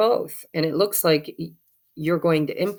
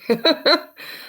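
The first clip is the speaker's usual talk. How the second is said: laugh; 10 semitones higher than usual. Real, not acted. Card keeps sliding off, she laughs.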